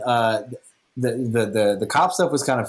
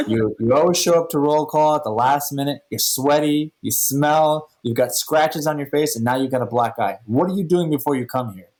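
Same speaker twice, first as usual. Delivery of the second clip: accusing sergeant; 5 semitones higher than usual. Retold or imitated. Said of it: "He goes".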